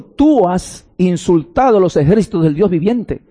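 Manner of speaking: David challenging Goliath, crying as he speaks; tearful defiance. Acted. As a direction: voice catching with tears, defiant. David defies the giant, tearful.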